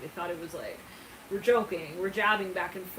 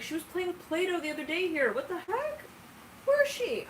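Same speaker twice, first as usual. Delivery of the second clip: much higher, rising into shocked confusion; mock shock, climbing higher each line; acted disbelief; 10 semitones higher than usual. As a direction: play it baffled and alarmed. Shocked friend voiced in story.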